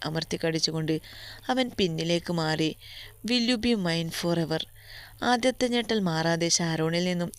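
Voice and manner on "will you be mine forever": slow tender proposal. Acted. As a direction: ask it slowly, as a heartfelt promise. Proposal to his beloved.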